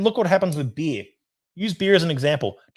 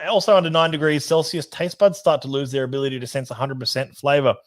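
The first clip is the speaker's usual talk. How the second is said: usual speaking voice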